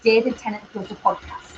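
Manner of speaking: imitating a Scottish actor's accent; lightly put-on Scottish lilt for the title. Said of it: "keeps his thick Scottish accent".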